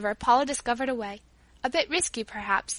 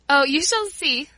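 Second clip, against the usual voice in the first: loud, higher, drawn-out tease; merry; 4 semitones higher, 7 dB louder, slower than usual. A narrator's reading. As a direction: tease merrily, keeping the secret. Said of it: "laughed Paula".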